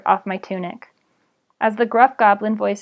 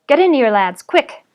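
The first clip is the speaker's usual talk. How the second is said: loud urgent call to hide; 4 semitones higher, 6 dB louder than usual. Acted. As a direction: hurry the boys in, loud and quick. Ditch digger calls boys urgently.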